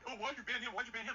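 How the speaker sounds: mock whiny demand. Imitating chatters questioning a ban, nagging mock tone. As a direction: parrot the pestering chatters. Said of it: "beholden to".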